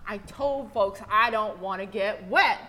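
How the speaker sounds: rising to a loud angry whine; upset complaint. Retold or imitated. Nigel complains to the pastor, rising upset. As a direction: vent that your clothes got wet. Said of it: "Nigel answers angrily".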